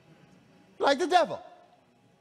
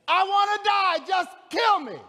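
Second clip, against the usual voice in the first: mock exasperated whine; 10 semitones higher than usual. Preacher mocking Jonah asking twice to die, hammed-up whine. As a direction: ham up a melodramatic death wish. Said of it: "You gonna ask me twice".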